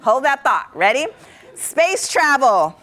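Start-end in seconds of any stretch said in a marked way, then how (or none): 1.5-2.8 eager prompt. Shown as a demonstration. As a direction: call it out to the crowd. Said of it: "shout it out".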